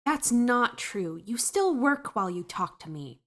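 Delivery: put-on insistent girl voice. Camellia objecting.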